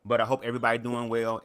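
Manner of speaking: talking while eating; mouth full. Real, not acted. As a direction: speak around a bite of food. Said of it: "I got some food in my mouth".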